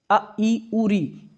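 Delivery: "अ, ई, उ, री" as brief sounds, barely held; short vowels. Shown as a demonstration. Teacher demonstrating short vowels to pupils, each said briefly. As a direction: give each of "अ, ई, उ, री" a very short beat. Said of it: "में बहुत कम समय लगता है".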